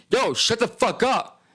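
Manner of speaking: high, slow mock yell of a rough guy; angry shelter guy. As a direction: snap at him like a grumpy roommate.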